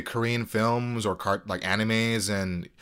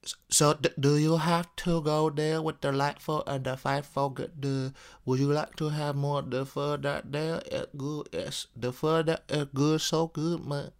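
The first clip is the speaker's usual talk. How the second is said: lightly put-on Vietnamese accent; 3 semitones higher, 7 dB quieter than usual. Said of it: "I can do a, uh, um, a Vietnamese. It's like".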